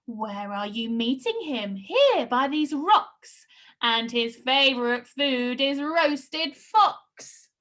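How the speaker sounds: put-on lively read-aloud for children; storytelling read. Teacher reads the Gruffalo to her class, lively storytelling. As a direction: paint the monster for the kids.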